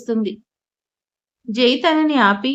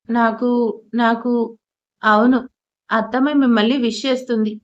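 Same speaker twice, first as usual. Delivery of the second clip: ordinary delivery, nothing marked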